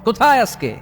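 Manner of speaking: preacher thundering at tyrants; thundering challenge. Acted. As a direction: roar it out like a king's summons. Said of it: "হুঙ্কার দিয়ে বলবেন".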